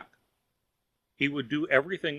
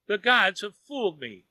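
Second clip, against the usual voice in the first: yelled; 7 semitones higher, 3 dB louder than usual. A narrator's reading. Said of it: "he yelled".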